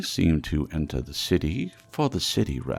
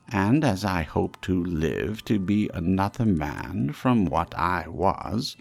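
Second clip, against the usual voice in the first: put-on earnest, raised old miser pleading; pleading Scrooge; 3 semitones higher, 5 dB louder than usual. Scrooge humbly pleads with the silent phantom, raised and earnest. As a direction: beg the silent ghost to guide you.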